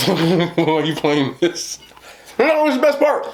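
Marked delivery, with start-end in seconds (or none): 0.1-1.8 baffled. Retold or imitated. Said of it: "looking at him like".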